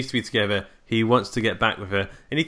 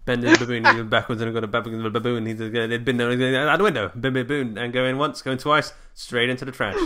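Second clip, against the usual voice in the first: auctioneer voice. Pretend. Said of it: "like an auctioneer".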